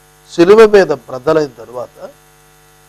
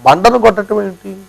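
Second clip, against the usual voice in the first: ordinary delivery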